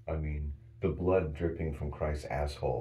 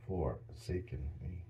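"Forsaken" slow and much softer; 2 semitones higher, 7 dB quieter, slower than usual. Shown as a demonstration. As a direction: breathe "Forsaken me" out softly and slowly. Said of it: "put an S in there".

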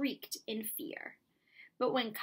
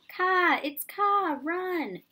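high, loud panicked shrieks; shouted in fear; 9 semitones higher, 7 dB louder, much slower than usual. Acted. Monkeys scream to each other, high and terrified. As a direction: scream the warning and flee. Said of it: "shouted the monkeys in fear".

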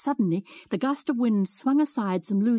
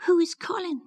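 faltering; 10 semitones higher than usual. Acted. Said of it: "she faltered".

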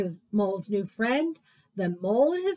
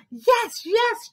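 high, loud happy cheer; 11 semitones higher, 6 dB louder than usual. Acted. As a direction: cheer it out like a delighted mole. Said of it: "cheered Mole".

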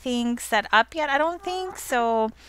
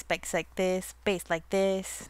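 softer repeats, like a fading echo; mock echo; 2 semitones lower, 5 dB quieter, slower than usual. Gamer joking about a friend's base, mock echo. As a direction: echo your own words, trailing away.

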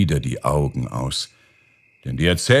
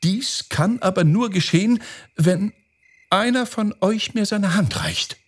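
much higher, careful female owl character; coy owl princess; 13 semitones higher than usual. Acted. Owl asking the storks for a hand in marriage, coy high voice. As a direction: voice the owl princess making a delicate request, pitched high. Owl makes her request.

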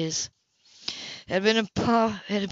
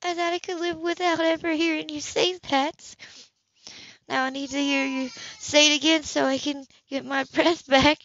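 tearful; 7 semitones higher than usual. A narrator's reading. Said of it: "tears swam in her eyes".

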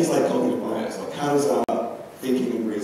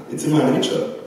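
lamenting; 4 semitones higher than usual. Acted. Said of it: "lamentingly says".

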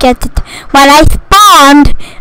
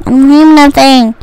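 lower, resigned repeat; low complaint; 4 semitones lower than usual. Real, not acted. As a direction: drop the pitch, giving up. Complains twice, high then low.

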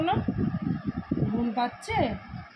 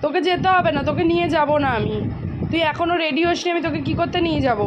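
put-on louder, higher, a playful telling-off to the child; mock scolding; 4 semitones higher, 3 dB louder than usual. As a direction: pretend you're cross and leaving them behind. Threatening to leave child behind. (মজা করে বকুনি)

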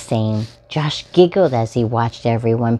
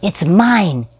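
loud, high mock yell of a child; 8 semitones higher, 6 dB louder than usual. Josh claiming the truck from another boy, loud playful yell. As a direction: shout it like a kid grabbing a toy. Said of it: "yelled Josh".

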